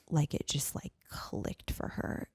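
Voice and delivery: hushed retelling. Retold or imitated. Emotional climax of story.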